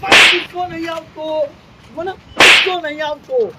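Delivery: loud, heated denial; still angry. Acted. Grandpa still yelling at the boy that he's calm. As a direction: keep insisting, still fuming.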